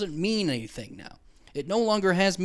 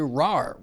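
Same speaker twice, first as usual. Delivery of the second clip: lion roar imitation. Shown as a demonstration. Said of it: "We just hear".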